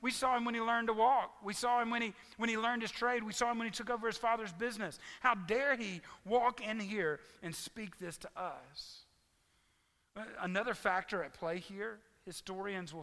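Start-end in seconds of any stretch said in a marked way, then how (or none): 0.0-9.1 louder, higher, offended protest; indignant townsfolk. Retold or imitated. Pastor voicing townspeople offended by Jesus, indignant and louder. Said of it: "They're like".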